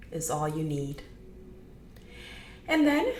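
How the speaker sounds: measured meditation guide with long pauses; gentle guiding, pausing often; guided meditation. Acted. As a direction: ease them into it, leaving room between phrases.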